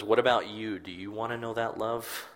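soft and intimate, dropping at times to a whisper; a hint of Jesus gently offering rest; Jesus, tender reassurance. Jesus promises the burdened reader rest, softly reassuring. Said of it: "He says".

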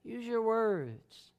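quiet slow parental coaxing; soft coaxing. Retold or imitated. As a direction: ease the child down quietly. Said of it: "But I just say".

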